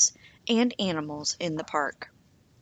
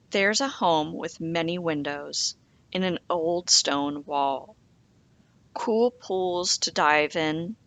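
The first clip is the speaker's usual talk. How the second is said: poem recital. Acted. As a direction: savour each line of the poem. Daniel recites his poem.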